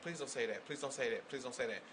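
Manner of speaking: soft, repeated plea under the breath; retold silent begging, kept small; quiet pleading. Listener dreading being named in the story, pleading quietly.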